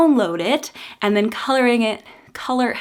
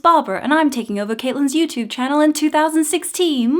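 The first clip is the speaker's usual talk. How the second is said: teddy bear voice; 5 semitones higher than usual. Acted. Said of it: "you're a teddy bear".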